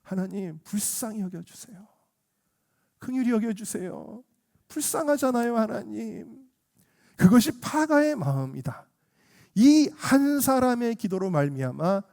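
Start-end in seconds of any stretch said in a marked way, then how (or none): 0.0-6.5 soft, imploring plea to God; acted gentle intercession; compassionate parental prayer. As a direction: pray tenderly for mercy. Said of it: "아비의 마음을 갖는 거예요".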